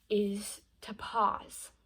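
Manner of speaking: slow, drawn-out "is to pause"; a slow, deliberate "pause". Shown as a demonstration. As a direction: lay it down slowly, letting "pause" land. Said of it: "yes, pause".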